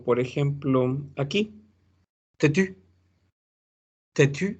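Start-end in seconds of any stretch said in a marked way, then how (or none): 2.4-2.7 têtu said slowly with a rounded French u. Shown as a demonstration. Teacher modelling têtu for Spanish speakers, careful French u. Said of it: "Es difícil decir têtu". 4.1-4.6 têtu said slowly with a rounded French u. Shown as a demonstration. Teacher modelling têtu for Spanish speakers, careful French u. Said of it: "Es difícil decir têtu".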